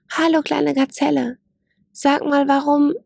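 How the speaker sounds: breaks off mid-question, stopping abruptly; cut off mid word. A narrator's reading. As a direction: stop short as something catches his eye. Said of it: "Er brach mitten im Satz ab".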